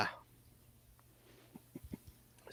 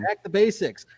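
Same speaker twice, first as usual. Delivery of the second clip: higher and louder, for emphasis; emphatic repeat; 8 semitones higher, 8 dB louder, slower than usual. Real, not acted. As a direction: punch the tip home. Reads tip, then repeats it.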